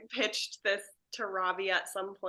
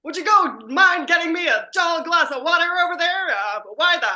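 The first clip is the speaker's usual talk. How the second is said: put-on loud, theatrical old-film actor; old black-and-white movie voice; 6 semitones higher, 10 dB louder than usual. Cast trapped in an old Dracula movie, hammy period voice. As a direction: declaim it like a vintage horror picture. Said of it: "they're talking like this".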